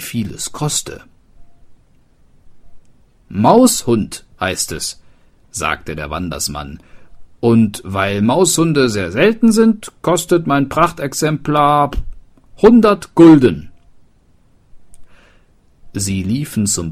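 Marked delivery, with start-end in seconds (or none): 3.3-5.0 slow proud seller. Acted. Wanderer names his cat. 7.4-13.7 higher and louder, climbing to a proud shout on hundert; a swindler talking up his wares; boastful seller. Acted. Wanderer to the townsfolk, naming his price with a boastful rise.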